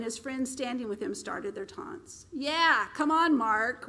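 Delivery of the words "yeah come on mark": loud jeering taunt; taunting call. Acted. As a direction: egg him on from the crowd. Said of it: "one man said".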